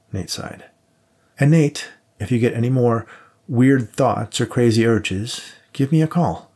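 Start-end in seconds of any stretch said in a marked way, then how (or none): 1.4-6.5 teasing partner. Acted. Max's teasing parting warning.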